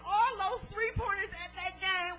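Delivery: comic over-the-top thanks, half laughing; preacher mocking a believer asking why life is so good; mock grateful prayer. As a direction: ham up a boastful prayer for laughs. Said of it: "none of us ever come to this side and say".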